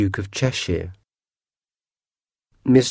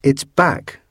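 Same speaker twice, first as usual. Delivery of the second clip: excited cry; 5 semitones higher than usual. Acted. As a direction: shout it out, copying his brother. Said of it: "cried Harry".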